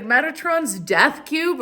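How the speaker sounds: high, slow mock drama; mocking imitation. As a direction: draw it out as a parody of conspiracy talk. Mocks conspiracy believers.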